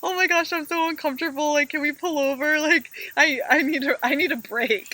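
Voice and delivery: high-pitched mock whine begging to stop; whiny complaint. Passenger begging the driver to pull over, a high mock whine. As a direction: play the cranky passenger pleading for a break.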